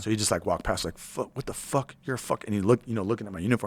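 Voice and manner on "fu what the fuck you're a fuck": sputtered mock dressing-down, pitched up; retold cussing out. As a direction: imitate a superior cussing someone out in passing. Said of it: "cusses me the fuck out".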